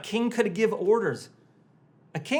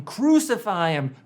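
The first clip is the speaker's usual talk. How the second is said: a louder crowd yell of Crucify him; crowd shout; 5 dB louder than usual. Retold or imitated. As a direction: call out Crucify him like the mob. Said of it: "the crowd is shouting".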